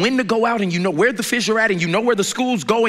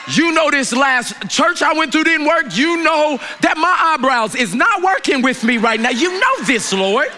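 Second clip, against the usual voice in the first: exasperated; 3 semitones higher than usual. Retold or imitated. Peter exasperated, answering God.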